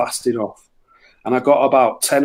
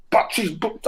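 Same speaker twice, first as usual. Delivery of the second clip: mock Belfast accent; 8 semitones higher, 4 dB quieter than usual. Mock accent at the shop counter.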